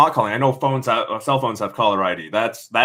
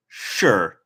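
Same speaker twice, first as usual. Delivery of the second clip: glum; 3 semitones lower than usual. Acted. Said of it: "I said glumly".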